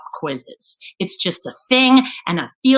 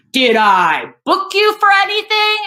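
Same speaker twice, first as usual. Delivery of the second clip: high, incredulous question; imitated exasperated cop, pitched up; retold indignant retort; 10 semitones higher, 4 dB louder than usual. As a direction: throw it back as a mock-indignant cop. Cop snaps back at arrest question.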